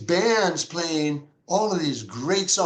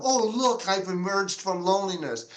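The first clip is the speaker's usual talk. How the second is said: mock triumphant; 3 semitones higher than usual. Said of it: "I don't want it to be some".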